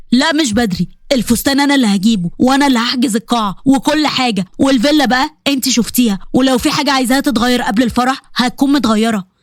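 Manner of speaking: put-on low, insistent young man; a hint of an eager groom; lightly voiced Qasim. Qasim insisting to Shahd the wedding is Thursday, low and firm.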